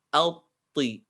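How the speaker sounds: alti with a thick, heavy vowel; the right heavy way of alti; correct heavy alti. Shown as a demonstration. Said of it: "Jadi bukan ati".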